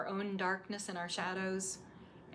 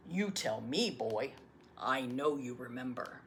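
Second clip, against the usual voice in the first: put-on lower, gentle old grandfather; a patient grandfather answering; grandfather's voice; 3 semitones lower, 7 dB louder than usual. Grandfather recalls blessing.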